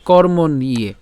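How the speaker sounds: কর্ম নিয়ে said as kormon-niye; model pronunciation. Shown as a demonstration. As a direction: sound the n, then "iye" in কর্ম নিয়ে. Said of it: "উচ্চারণটা কেমন হচ্ছে?". ("কর্ম নিয়ে"-তে ণ ও ইয়ে স্পষ্ট উচ্চারণ)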